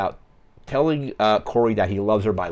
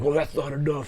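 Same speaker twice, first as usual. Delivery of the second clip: higher-pitched, mildly upset imitation; retold upset; 7 semitones higher than usual. Movie character stuck in the friend zone, mock upset. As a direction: imitate a rejected friend's protest, lightly. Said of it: "really upset that he's in the friend zone".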